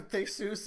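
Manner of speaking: Theseus said as "THAY-soos", like a Spanish name; mimicked mispronunciation. Co-host ribbing friend about Hispanic-sounding name, mimicked mispronunciation. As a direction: jokingly turn Theseus into two syllables, "ay" then "oos". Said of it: "like, your Hispanic cousin".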